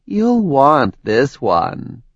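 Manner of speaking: menacing. Acted. Villain slow menace.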